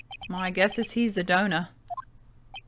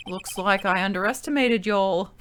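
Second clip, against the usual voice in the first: put-on Aussie accent. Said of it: "that was quite a weird word to say in an Aussie accent".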